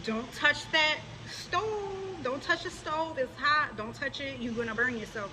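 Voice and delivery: mild imitation of a mother; motherly warning. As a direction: warn like a careful mom. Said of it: "if a mother tells her child".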